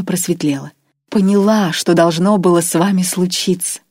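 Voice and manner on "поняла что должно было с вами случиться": higher, louder, savouring cruelty; enjoy every cruel word; relish. Acted. Irma tells Grois his fate with obvious pleasure. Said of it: "с явным удовольствием".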